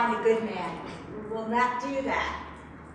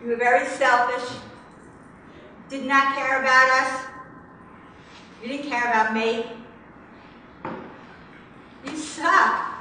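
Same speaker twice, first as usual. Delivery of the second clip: louder, halting accusations; venting accusations; 2 semitones higher, 3 dB louder than usual. Real, not acted. Daughter calling absent father names, forceful venting. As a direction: let him have it, one charge at a time. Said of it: "call him some names".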